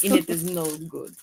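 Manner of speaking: put-on Russian accent. Joking after the other speaker fails at an accent: put-on russian accent.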